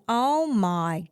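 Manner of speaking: reliving the shock of seeing the proposal; stunned oh my God. Retold or imitated. To the host, reliving seeing the proposal, loud stunned disbelief. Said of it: "that's all I kept saying".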